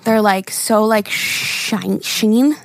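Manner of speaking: slightly winded, catching breath. Real, not acted. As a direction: talk while still winded. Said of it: "I am out of breath".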